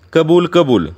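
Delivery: high, lightly shouted assent; crowd shout. A narrator's reading. Villagers answer the guru's proposal, crying out agreement. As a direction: cry out agreement as a crowd would. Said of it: "लोक ओरडले".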